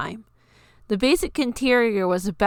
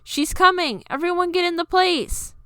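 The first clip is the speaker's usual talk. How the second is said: higher, excited call; urgent hiss-free alert; 9 semitones higher than usual. Acted. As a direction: rush everyone into place. Urgent warning to hide.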